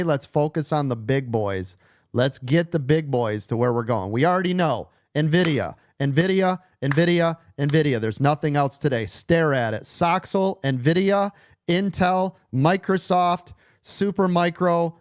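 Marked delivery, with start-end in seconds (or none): 4.1-8.0 emphatic. Real, not acted. Hyping the key stock. 9.8-14.9 emphatic. Real, not acted. Listing the stocks emphatically.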